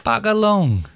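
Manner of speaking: high West Country voice; West Country accent. Shown as a demonstration. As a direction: chirp it in a West Country burr. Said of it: "West Country".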